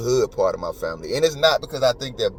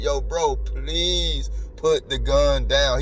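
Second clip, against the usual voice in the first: imitated begging; 2 semitones higher, much slower than usual. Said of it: "The cop is begging".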